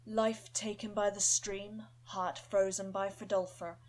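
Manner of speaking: slow, growled demon wolf voice. Acted. Demon wolf growling a name at the undead dog. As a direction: drag it out like a rasping wolf demon. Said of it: "Deep, raspy, and sort of growled speech".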